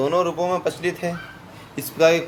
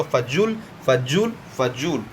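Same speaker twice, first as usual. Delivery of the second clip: slow drill; much slower than usual. Shown as a demonstration. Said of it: "फजूल होता है".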